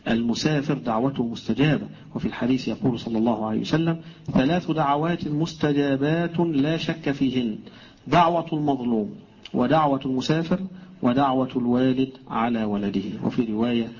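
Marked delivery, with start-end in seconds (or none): 4.3-13.0 measured formal quoting; hadith recitation. Acted. Teacher quoting the Prophet on three answered prayers, measured recitation. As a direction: deliver the saying phrase by phrase, with pauses.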